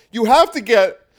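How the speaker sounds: hammed-up hysterical grandma plea; hysterical woke. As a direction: wail it with a fake sob and laugh. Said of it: "the wokes go".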